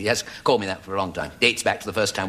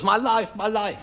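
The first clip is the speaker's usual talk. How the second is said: Jewish gentleman's voice; 11 semitones higher, slower than usual. Retold or imitated. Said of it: "He goes".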